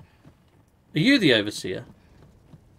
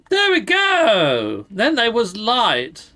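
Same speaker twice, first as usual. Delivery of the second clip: grand announcement; 5 semitones higher, much slower than usual. Pretend. Lighting the lantern.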